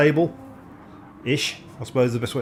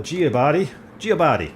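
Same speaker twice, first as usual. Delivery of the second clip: Giobadi slipping into a mock Italian accent. Real, not acted. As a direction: attempt the surname, landing in hammy Italian. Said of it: "coming out as Italian every time".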